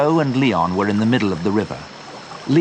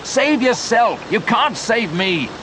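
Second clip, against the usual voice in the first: high, then slower resigned plea; pleading; 12 semitones higher, slower than usual. A narrator's reading. Leon pleading with Joe, resigned. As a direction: give up on yourself.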